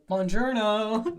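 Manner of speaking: slow, drawn-out mock Italian; mock Italian greeting. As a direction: stretch it out like a fake Italian. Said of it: "you're like".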